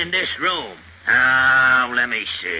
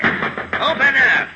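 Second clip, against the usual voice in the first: slow, drawn-out call, a bit higher; calling through door; 8 semitones higher, slower than usual. Acted. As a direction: call out slowly to whoever is inside. Inspector pounding on a door.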